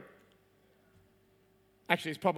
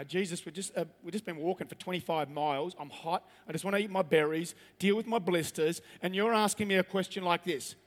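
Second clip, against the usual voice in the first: grumpy disciple; 4 semitones lower, 4 dB quieter than usual. Acted. Tired disciple voiced.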